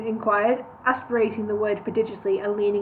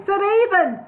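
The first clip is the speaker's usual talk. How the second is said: high, louder proclamation; loud declaiming; 10 semitones higher, 6 dB louder than usual. Acted. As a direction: call it out grandly across the rocks. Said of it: "he declaimed loudly".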